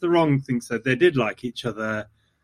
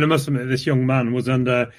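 slight fake Yorkshire accent; slipping into a faint Yorkshire accent. Real, not acted. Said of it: "slipping into a sort of fake Yorkshire accent".

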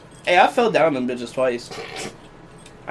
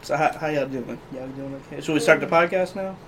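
radio voice; 5 dB quieter than usual. Acted. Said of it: "There goes the radio voice again".

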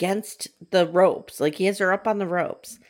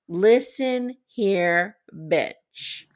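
slow, deliberate mock menace; spaced-out, hammed-up warning; acted threat; much slower than usual. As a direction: draw out each word as a threat. Acting out a character's threat.

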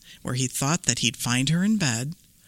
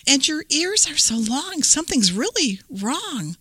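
put-on little girl voice; 9 semitones higher than usual. Red questions granny.

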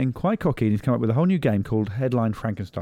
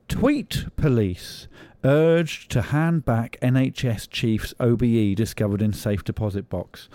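headline read; slower than usual. Acted. Reads headline slowly.

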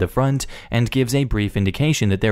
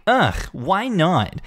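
mock bark; 4 semitones higher than usual. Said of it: "Karen barks back".

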